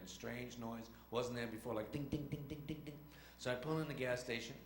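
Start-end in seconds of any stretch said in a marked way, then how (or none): 1.9-3.0 lightly imitated engine pinging; imitated engine ding. Driver describing a strange engine noise, imitated pinging. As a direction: mimic a small repeated engine knock. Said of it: "hear a funny noise in the engine".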